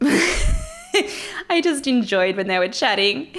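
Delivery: slow words with a real laugh. Real, not acted. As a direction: laugh through the memory. Laughs while recalling scene.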